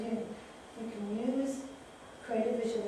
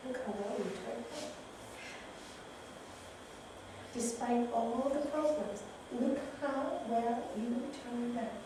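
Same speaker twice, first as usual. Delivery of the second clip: tender reassurance; 7 dB quieter than usual. Acted. Hugging inner child.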